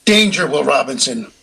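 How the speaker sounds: lightly voiced retro robot warning; a hint of a clunky TV robot voice. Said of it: "the robot said something like".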